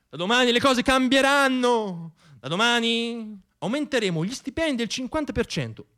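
a touch of a pompous stump speech; rally politician. Pretend. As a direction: orate like a politician selling dreams.

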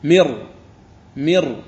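مر with a strong doubled r. Shown as a demonstration. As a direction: press the r in مر, no n. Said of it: "قرأت الراء المشددة".

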